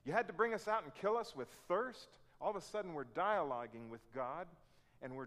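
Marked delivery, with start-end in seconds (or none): 0.0-2.2 loud, higher, accusing protest; raised mock outrage at God; indignant complaint. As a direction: hurl the accusation at God like an aggrieved Israelite. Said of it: "it comes out like this".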